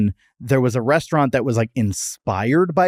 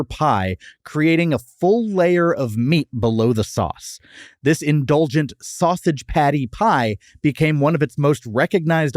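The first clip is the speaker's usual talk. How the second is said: podcast fact read; 2 semitones higher than usual. Acted. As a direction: present the menu history like a feature. Reads the prepared history segment.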